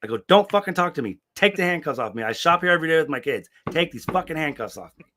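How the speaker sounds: yelling at the cop to take the cuffs off; retold angry yelling. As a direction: fire it at him in outrage. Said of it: "I was, like, yelling at him".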